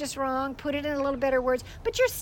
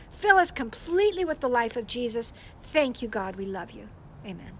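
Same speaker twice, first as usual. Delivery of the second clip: prayer. Shown as a demonstration. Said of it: "And then you start praying".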